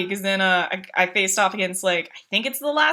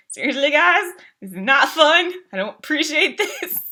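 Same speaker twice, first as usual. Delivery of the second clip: Cartman; 5 semitones higher than usual. Retold or imitated. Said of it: "I started to do a Cartman impression".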